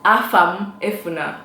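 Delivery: Afamefuna said syllable by syllable, a-fa-me-fu-na; Igbo name demo. Shown as a demonstration. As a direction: model Afamefuna clearly for learners. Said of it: "Let's say it a few more times".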